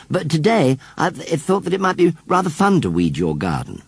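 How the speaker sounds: a hint of a bashful boy, halting; shy boy John. A narrator's reading. John voiced in story.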